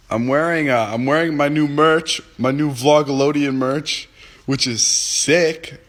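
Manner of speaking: high, drawn-out hype; hyped. Real, not acted. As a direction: sell it like a proud merch drop. Hyping his new merch.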